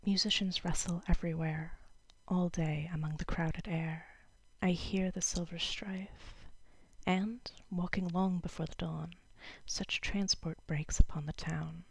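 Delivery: measured poem recital with pauses between lines; lightly performed poetry reading. Acted. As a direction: read the verse aloud, letting each line settle. Reads a poem aloud.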